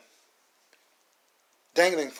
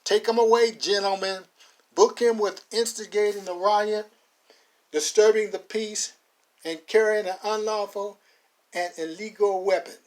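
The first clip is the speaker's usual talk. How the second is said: high, loud start easing down; shouting order; 6 semitones higher, 4 dB louder than usual. Acted. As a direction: call out the charges with authority. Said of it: "Connolly shouts".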